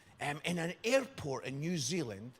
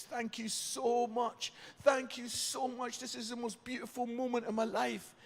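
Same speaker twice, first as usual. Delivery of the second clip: tearful thanks; 5 semitones higher, 4 dB quieter than usual. Retold or imitated. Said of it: "She has a little cry".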